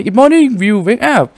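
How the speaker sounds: high, bright-voiced morning wake-up; lively high-pitched wake-up line; wake-up call. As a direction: call out to rouse a sleeper, pitched well up. Character wakes Will up.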